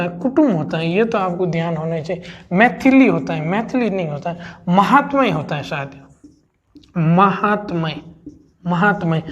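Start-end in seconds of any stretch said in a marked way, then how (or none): 4.7-9.2 महात्मय said slowly, each syllable clear, त and म half; slow syllable drill. Shown as a demonstration. Teacher slowly drilling महात्मय for students, syllable by syllable. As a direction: drawl out महात्मय for the class, half त and म. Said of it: "त और म दोनों आधा होता है".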